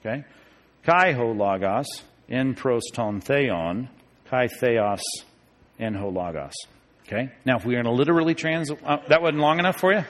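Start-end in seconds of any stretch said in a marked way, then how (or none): 0.8-6.5 slow, soft, low sounding-out of Greek; slow transliteration. Shown as a demonstration. Teacher helping class transliterate, slow low Greek reading. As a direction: spell it out by ear, unhurried. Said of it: "if you wanna transliterate it".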